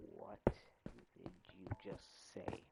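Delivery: slow, low, drawn-out disbelief; mock disbelief. Streamer retells confronting his building partner, in slow mock disbelief. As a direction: confront him slowly, word by word.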